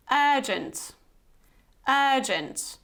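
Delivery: "Urgent" with a long first vowel, "UR-junt". Shown as a demonstration. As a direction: draw out the "er" that opens "Urgent". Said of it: "you have this long er here".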